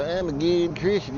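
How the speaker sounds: mock pious Christian. Vlogger mocking hypocritical Christians in a smug pious voice. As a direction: parody a self-righteous believer. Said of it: "I always love to sit and go".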